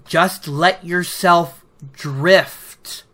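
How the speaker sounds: slow, soft coaxing instruction; soft guiding voice. Retold or imitated. Teacher coaxing student to drift along. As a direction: lull her along gently. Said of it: "he shifts it just a bit with".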